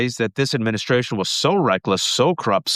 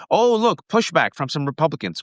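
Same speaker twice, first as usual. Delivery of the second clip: higher, bright-eyed mock cheer; mock optimism; 4 semitones higher than usual. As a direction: parody naive hopeful people. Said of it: "you heard people say".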